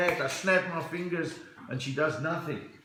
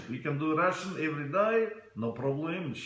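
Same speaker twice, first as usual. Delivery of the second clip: rough attempt at a Russian accent. Shown as a demonstration. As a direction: put on a comic Russian accent.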